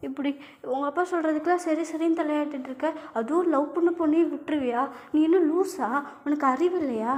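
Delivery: put-on sharp, rising scold at her boyfriend; angry scolding. Girlfriend scolding boyfriend for obeying his father, angry. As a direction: tell him off for giving in to his father. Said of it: "நீ எதுக்கு இப்ப இவ்ளோ கோவப்படுற?".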